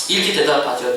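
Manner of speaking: normal talking voice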